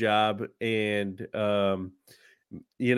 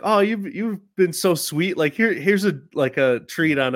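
put-on sweet old lady; 4 semitones higher than usual. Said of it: "they're like".

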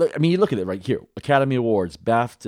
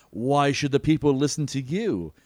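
lightly voiced film prince, higher pitch; Prince John; 5 semitones higher than usual. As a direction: challenge him in a mildly hammed-up higher voice. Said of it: "the Prince John goes".

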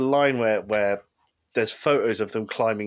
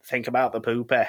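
lightly voiced Jamie. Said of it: "And Jamie says".

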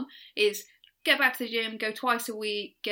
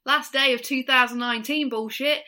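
louder, wobbly attempt at a New Zealand accent; 2 semitones higher, 5 dB louder than usual. Co-host made to read Emma's tweet, shaky New Zealand accent. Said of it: "have to do the New Zealand accent".

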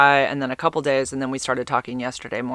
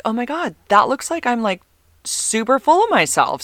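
mock horrified squeal; 9 semitones higher, 4 dB louder than usual. Mocking her own nude photo.

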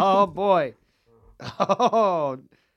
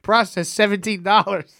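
slow, higher robotic notice voice; automated company voice; 6 semitones higher, 6 dB louder, slower than usual. Retold or imitated. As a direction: read it out like a stiff automated message. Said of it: "They're like".

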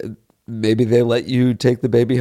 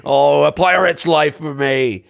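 pirate voice; 2 semitones higher than usual. Acted. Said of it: "talking like a fucking pirate".

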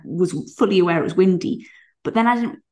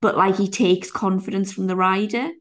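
imitated hedging, slow and drawn out; hesitant seller; slower than usual. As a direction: hedge your answer, stretching the words. Voices seller's doubtful answer about horse.

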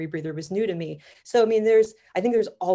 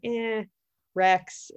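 higher-pitched, offhand "meh"; unimpressed reaction; 5 semitones higher than usual. Retold or imitated. Diver recalling her first view of shipwreck diving, unimpressed. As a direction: shrug it off, unimpressed. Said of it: "I was kinda like".

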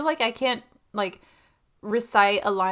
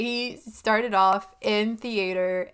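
slow, deliberate, composed take on started off in theater; steady yourself and say it slowly, carefully; careful, measured delivery; composed retry; 3 dB louder, slower than usual. Shown as a demonstration. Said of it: "Yes, okay".

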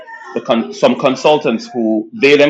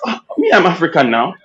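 put-on Nigerian accent; 6 semitones higher than usual. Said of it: "I said".

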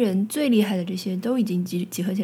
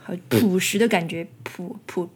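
朴实 cracks mid-word and trails off; voice cracking; 2 semitones lower, 3 dB quieter than usual. Real, not acted. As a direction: voice breaks on 朴 and fades. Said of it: "破音了".

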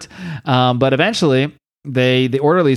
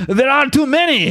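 overwhelmed shout; 12 semitones higher than usual. Retold or imitated. Frenchie overwhelmed in fight.

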